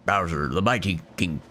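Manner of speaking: lightly growled pirate king; a hint of pirate swagger; pirate-ish Bowser voice. Player voicing Bowser as a pirate king. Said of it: "Why am I doing a Mister, like, a, a pirate voice now?".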